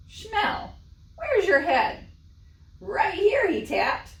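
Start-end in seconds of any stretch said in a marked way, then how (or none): 0.1-2.0 much higher, louder exasperated wife; crying out. Acted. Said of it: "cried Fagel". 2.8-3.5 much higher, louder naive husband; innocent reply. Acted.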